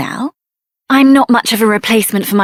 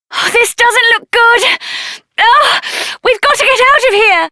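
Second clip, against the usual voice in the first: high, frightened hurry; alarmed urgency; 10 semitones higher than usual. Acted. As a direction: urge everyone out in alarm. Escaping danger, alarmed.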